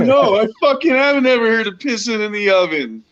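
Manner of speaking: high, laughing incredulous retort; fast, high laughing protest; laughing disbelief. Retold or imitated.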